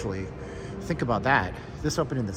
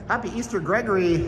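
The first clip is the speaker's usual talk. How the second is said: excited; 7 semitones higher, 4 dB louder than usual. Real, not acted. Greeting a viewer excitedly.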